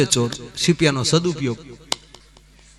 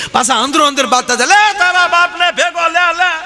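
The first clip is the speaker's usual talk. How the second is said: panicked thieves yelling; 12 semitones higher than usual. Acted. Fleeing thieves yell at each other.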